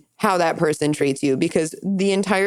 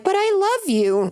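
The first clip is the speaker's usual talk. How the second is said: high, pleading mom voice; mock mom; 12 semitones higher than usual. Mom protesting her love, high and pleading. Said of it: "when mom's like".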